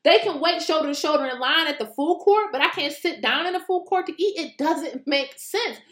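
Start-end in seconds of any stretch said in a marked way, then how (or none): 4.4-5.8 slowed emphasis. Real, not acted. Slow emphatic own verdict.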